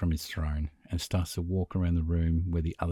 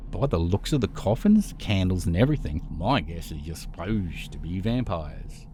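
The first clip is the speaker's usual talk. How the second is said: sarcastic. Acted. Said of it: "with a sarcastic voice".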